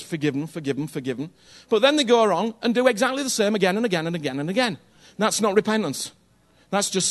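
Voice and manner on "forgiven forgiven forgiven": breezy mock forgiving. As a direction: lower and softer, fading away. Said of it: "everybody goes".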